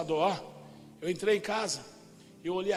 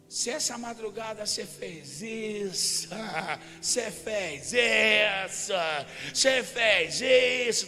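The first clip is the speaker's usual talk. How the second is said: slow, dragged, accusing repeat; demon's slow accusation; much slower than usual. Retold or imitated. The demon slowly accusing the preacher at dawn. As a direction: draw each you did this out like an accuser.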